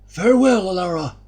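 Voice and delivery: put-on old Omar answers Elara; old chief's farewell. A narrator's reading.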